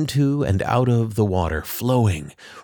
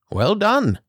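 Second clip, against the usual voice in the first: a proud little owl praising them, higher; Tin Owl voice; 12 semitones higher than usual. A narrator's reading.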